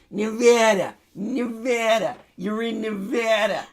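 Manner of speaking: high mock tough-guy yell of Nevada; Joe Pesci shouting. Mocking Nevada as Joe Pesci yelling in his face. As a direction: grab him by the collar and bark it, hammed up. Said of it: "sounds like Joe Pesci has got me up by the collar".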